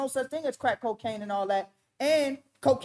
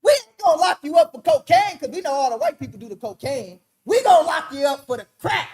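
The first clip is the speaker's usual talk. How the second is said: voicing the government; 3 semitones higher, 7 dB louder than usual. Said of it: "And then he said".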